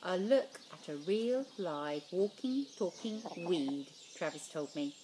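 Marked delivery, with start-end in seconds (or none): 0.0-3.9 slow sneer. Acted. Bully sneering slowly.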